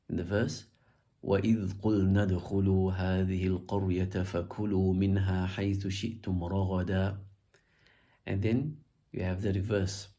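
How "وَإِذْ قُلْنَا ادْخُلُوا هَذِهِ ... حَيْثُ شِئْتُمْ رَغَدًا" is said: measured Quranic chant on a level tone; even, melodic recitation. Shown as a demonstration.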